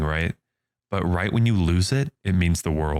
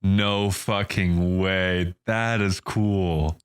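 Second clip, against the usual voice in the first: slow, drawn-out disbelief; amazed; much slower than usual. Real, not acted. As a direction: stretch each word out, stunned. Reacting to surprising trivia.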